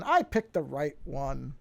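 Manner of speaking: drawn-out, pleased announcement; slow self-congratulation; pleased confirmation. Real, not acted. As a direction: savor it slowly, as a small win. Confirms the right intro was picked.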